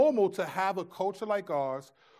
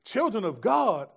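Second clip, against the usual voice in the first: louder, higher, incredulous echo of the demon's words; amazed retelling; 5 semitones higher, 6 dB louder than usual. Retold or imitated. Young preacher shocked by the demon's words, loud disbelief. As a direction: repeat it in disbelief, worked up. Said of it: "But I remember being like".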